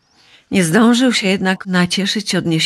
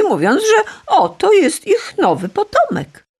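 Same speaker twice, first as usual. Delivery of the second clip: laughing. A narrator's reading. Rhea tricks Kronos.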